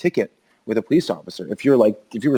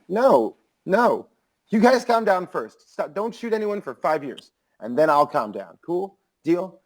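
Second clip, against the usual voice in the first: mock pleading; 6 semitones higher, slower than usual. Mock bargaining with laughing cops.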